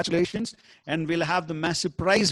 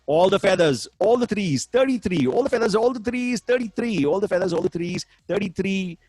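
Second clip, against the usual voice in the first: bingo caller. Acted. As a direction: chant each number like a bingo host. Bingo number calls.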